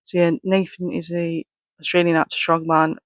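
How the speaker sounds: muffled through a rubber mask; inside a rubber mask. Real, not acted. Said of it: "it is hard to breathe in this, um, in this mask".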